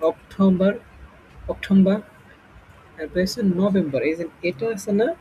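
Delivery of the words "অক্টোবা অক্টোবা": অক্টোবর ending in "-ba", r dropped; firm অক্টোবর with a silent final r; British pronunciation. Shown as a demonstration. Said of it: "আর উচ্চারণ হবে না". (অক্টোবর, শেষের "র" ছাড়া)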